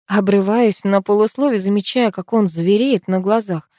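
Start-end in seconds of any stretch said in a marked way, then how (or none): none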